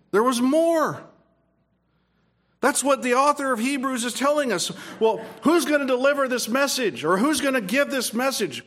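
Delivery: fervent pulpit delivery; preaching. Acted. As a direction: proclaim it to the congregation. Preaching to the congregation.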